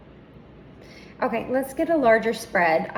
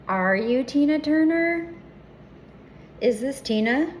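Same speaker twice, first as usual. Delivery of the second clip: calling out; 5 semitones higher, 4 dB louder than usual. Real, not acted. Calling to the spirit.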